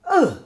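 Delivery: short, high-pitched "ugh" of disgust; disgusted groan. Real, not acted. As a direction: recoil with a quick, real groan. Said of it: "becoming real fucking disgusting".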